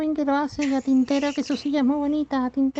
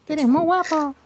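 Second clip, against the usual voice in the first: helium voice; 3 dB louder than usual. Acted. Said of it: "pero con helio".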